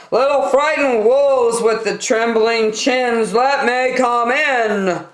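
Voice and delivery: sweet-talking villain pig; sly pig voice. A narrator's reading. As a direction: coax them to open the door. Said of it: "said the pig".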